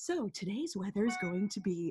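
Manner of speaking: gentle, calm, motherly tone, very soft and hushed. Showing how women broadcasters sound giving the weather: calm, motherly voice. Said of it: "It's it's more like calm and motherly".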